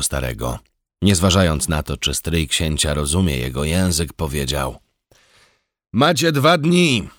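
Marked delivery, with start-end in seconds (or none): 5.9-7.1 grieving hussar laying down terms; stern command. A narrator's reading. Joachim commands the old uncle.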